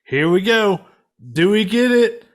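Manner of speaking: mock excited anticipation. Podcaster reliving waiting for the Bronson voice, mock excited and rising. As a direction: act out the viewer's nervous excitement before the film reveals the voice. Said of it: "So I was just like".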